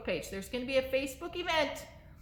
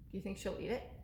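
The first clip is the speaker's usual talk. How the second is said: ordinary talk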